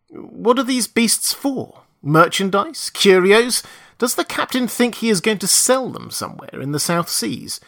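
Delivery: rapid, rising, curious questions; eager questions. A narrator's reading. Narrator's excited questions.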